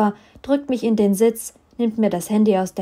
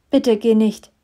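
put-on urgent, louder childlike plea; 6 dB louder than usual. Eddie begs Trevor to stay, childlike plea. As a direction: beg him not to leave like a scared child. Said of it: "dass ich wie ein Kind klinge".

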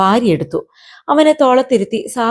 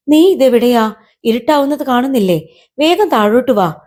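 higher, mildly anxious questioning; worried urging; 4 semitones higher than usual. Acted. Girl calling her kite home as darkness falls, mildly worried. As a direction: urge him down with a touch of worry. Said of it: "അവളുടെ ശബ്ദം ഇടറി".

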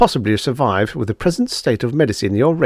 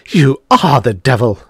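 gasped; 5 dB louder than usual. Acted. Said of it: "she gasped".

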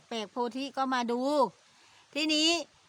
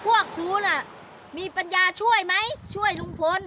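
mock angry official; 5 semitones higher, 4 dB louder, slower than usual. Man's rebuke in retold quarrel.

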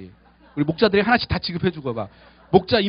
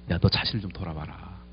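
lower, cool rebuke; stern God; 10 semitones lower, 7 dB quieter than usual. Retold or imitated. God coldly rebuking the angry pastor, low and cool. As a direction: quietly tell him to look at himself. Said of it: "이런 느낌으로 저를 쎄하게 쳐다보시는".

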